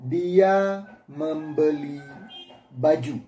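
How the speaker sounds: very slow, spaced example sentence; slow dictation of a sample sentence; dictating example. Shown as a demonstration. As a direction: read it out word by word for students to copy. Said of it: "Kalimat kedua".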